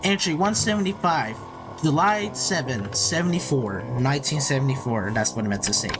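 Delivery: lightly dramatic log narration; mock log entry. Player recording a log entry, mock-solemn. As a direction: narrate a grave diary entry, measured.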